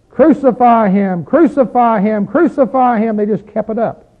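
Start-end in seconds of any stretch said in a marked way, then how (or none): 0.1-3.2 slow, louder chanted cry of a mob; crowd crying out. Retold or imitated. Preacher voicing the crowd demanding Pilate crucify him, loud repeated cry. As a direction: call it out again and again like an angry crowd. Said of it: "cried out repeatedly".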